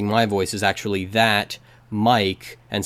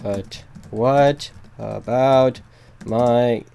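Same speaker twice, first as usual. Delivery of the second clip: Sam the Eagle try; much slower than usual. Acted. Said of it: "as Sam the Eagle".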